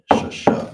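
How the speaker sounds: sha sha as two separate even syllables; model pronunciation. Shown as a demonstration. Teacher modelling six for the class, two clear syllables. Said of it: "so you would just pronounce it sha sha".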